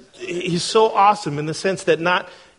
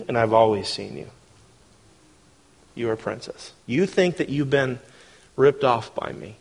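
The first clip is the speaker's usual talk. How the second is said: tender voice of God; 3 semitones lower than usual. Acted. God speaks tenderly to Sarah.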